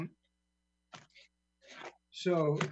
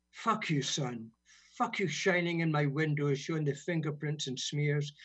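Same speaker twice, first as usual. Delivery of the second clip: rhythmic, angry-edged spoken word; poem reading. Acted. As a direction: spit the refrain, then settle back. Recites swearing poem.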